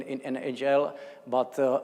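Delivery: ordinary talk, nothing marked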